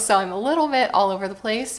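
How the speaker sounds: quick, scattered espresso-fuelled chatter; too much caffeine. Real, not acted. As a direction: talk fast, a bit wired. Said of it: "have a lot of espresso".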